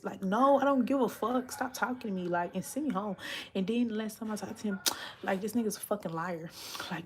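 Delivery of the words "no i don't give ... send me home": retold angry snap.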